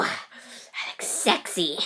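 slow breathy sexy whisper; hammed-up seductive whisper; mock seductive. Whispers after seeing himself.

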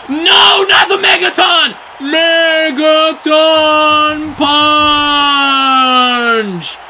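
high, loud dread-filled yell; real horror from the commentator; horrified shout. Real, not acted. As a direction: scream as the punch lands. Finisher about to land.

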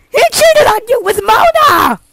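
high yelled accusation; a mocking, high heckler's yell; heckler shout. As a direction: blurt it out loud at everyone.

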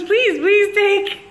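drawn-out pleading. Retold or imitated. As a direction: plead with him, stretching each word out. Host begging guest to eat.

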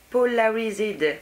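« Polarized » dit lentement avec un accent anglais exagéré; accent anglais appuyé. Shown as a demonstration. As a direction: prononcer « Polarized » à l'anglaise, en détachant chaque syllabe. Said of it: "Vous avez vu cet accent un peu?". (« Polarized » avec un accent anglais forcé, lent et appliqué)

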